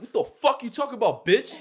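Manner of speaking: loud, high angry comeback; retold angry screaming. Him turning on the girl, retold as an angry yell. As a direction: yell it back, outraged. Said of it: "I'm screaming at this bitch".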